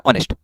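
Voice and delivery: ऑनेस्ट begun on the vowel, no H; silent H. Shown as a demonstration. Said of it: "इसको हॉनेस्ट नहीं बोलना".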